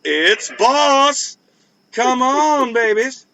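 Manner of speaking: high, hyped oldies radio jock; Bob Cormier DJ voice. Retold or imitated. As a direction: rattle off the rhymes like a classic AM DJ. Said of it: "do the old, uh, boss man Bob Cormier".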